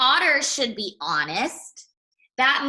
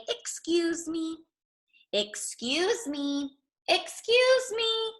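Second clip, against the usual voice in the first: polite interrupting; 8 semitones higher, slower than usual. Acted. Otter tries to interrupt politely, growing higher. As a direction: ask more insistently each time.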